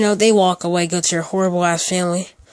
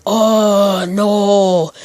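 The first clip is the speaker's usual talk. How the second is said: imitating the daughter; 4 dB louder than usual. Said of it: "Kinda like the same way her daughter said it".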